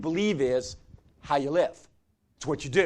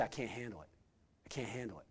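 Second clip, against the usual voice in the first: overwhelmed refusal; 5 semitones lower, 14 dB quieter than usual. Retold or imitated.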